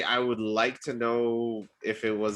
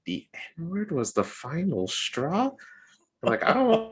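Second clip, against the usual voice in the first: incredulous; 9 semitones higher than usual. Retold or imitated. Incredulous reply to date.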